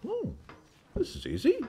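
high, soft mock thanks; mock grateful attacker. Attackers imagined thanking the defence, high mock politeness. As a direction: feign sweet surprise. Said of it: "And we said".

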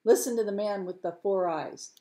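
bawled announcement, rising in pitch; bawling out. Acted. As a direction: call it out to the crowd. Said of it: "the fisherman bawled out".

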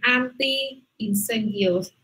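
"anti-incendios" said slowly, stretching the long i; teacher sounds out "anti-incendios" with care; slow model pronunciation. Shown as a demonstration. Teacher repeats the word slowly as a model. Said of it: "Muy bien".

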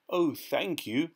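high, slow, grateful thanks; polite. A narrator's reading. Tin Man thanking the keeper, politely. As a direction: draw out a courteous thank-you. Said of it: "said the Tin Man politely".

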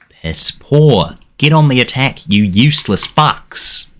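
real anger at a useless side; heated. Real, not acted. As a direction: let the frustration boil over. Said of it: "I'm getting a bit heated here".

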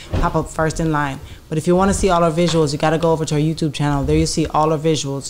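brisk, practised subscribe pitch; host's social media plug; podcast promo read. Acted. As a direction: rattle off the channel plug to the viewers. Channel promo to the audience.

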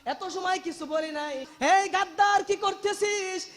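chanted cry of outrage; old man's outcry. Retold or imitated. Old man rebukes the traitors striking Husain's face, crying out. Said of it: "চিৎকার দিয়ে বলতেছে".

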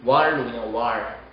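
"what" said as "war", T merged into R; "what" blended into "whar"; R attached to what. Shown as a demonstration. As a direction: end "what" on an R. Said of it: "R을 what에 붙여주세요".

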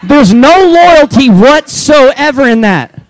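high, laughing, hammed-up indignation; mock outrage. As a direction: scold him in fake outrage while laughing. Mock outrage at the kids pastor.

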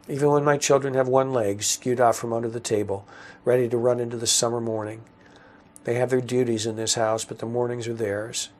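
deliberate, formal literary reading; story narration. A narrator's reading. Father describing the breakfast table, deliberate formal narration. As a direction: read each phrase out firmly and evenly. Reads own story aloud.

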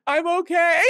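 high, loud laughing reply; a laughing, teary "I'm okay". Retold or imitated. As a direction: laugh through the words. Sobbing reply through laughter.

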